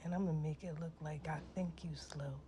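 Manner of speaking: whispered retort. Retold or imitated. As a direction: mutter it under your breath, condescending. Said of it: "I was looking at her like".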